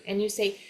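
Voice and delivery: "And you say" with D dropped, N gliding into "you"; N joined to you. Shown as a demonstration. Teacher explains joining N with you, linked words. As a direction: link the N of "And" onto "you". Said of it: "aqui junto o N com you".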